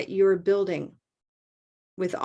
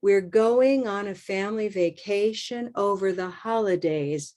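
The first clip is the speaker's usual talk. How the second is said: slower. Shown as a demonstration. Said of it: "I'll go slower".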